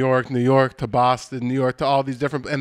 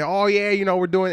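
high-pitched gloating Boston fan; smug fan; 6 semitones higher than usual. Acted. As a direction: crow from up on a high horse. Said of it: "be on their high horse".

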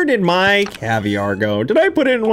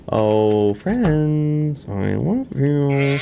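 tender; 3 semitones lower, much slower than usual. Acted. Telling farm animals he loves them.

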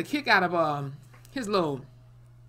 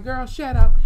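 high, loud burst of impatience; exasperated rebuke; 8 semitones higher, 14 dB louder than usual. Acted. Viewer shutting down Montana's protest, exasperated. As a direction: cut them off, loud and high.

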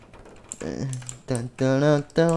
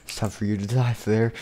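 low, softer menacing threat; a quiet lowered death threat; villain voice; 8 semitones lower, 7 dB quieter than usual. Acted. Old costume threatening Flair with death, low and quiet. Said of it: "It's like".

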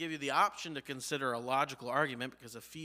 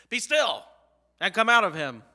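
booming, higher commanding voice; authority voice; 5 semitones higher, 13 dB louder than usual. Shown as a demonstration. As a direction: command the spirit out with full authority. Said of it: "let me put on my authority voice".

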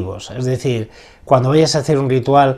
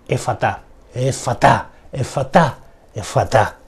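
incantation; 4 dB quieter than usual. Shown as a demonstration. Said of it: "las repito tres veces".

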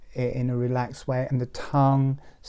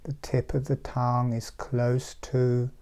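guided meditation. Real, not acted. Teacher describing a relaxed seal to meditators, meditative.

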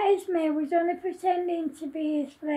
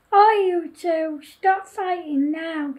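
stern calling out; 6 dB louder than usual. Acted. Mister Pease to fighting pupils, mildly stern call.

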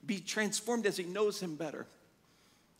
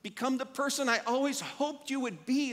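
voice of God; 4 semitones higher than usual. Retold or imitated. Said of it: "is what God's saying".

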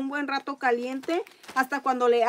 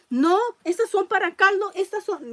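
imitating mom scolding; 6 semitones higher, 4 dB louder than usual.

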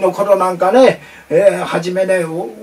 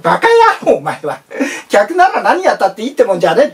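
angry shout; 2 semitones higher, faster than usual. Retold or imitated. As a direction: bark at the rude customer. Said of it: "と".

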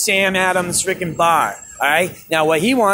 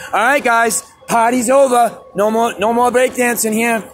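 slightly raised, higher mock-police announcement; lightly voiced cop; 4 semitones higher than usual. Imagined cops shut down the breakdancers, lightly acted order. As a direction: lightly play an officer breaking it up.

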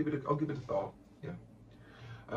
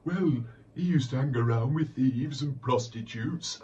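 put-on loud, higher, slow acid old lady; Blanche voice; 6 semitones higher, 9 dB louder, slower than usual. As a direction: deliver it as a tart put-down. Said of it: "and Blanche said".

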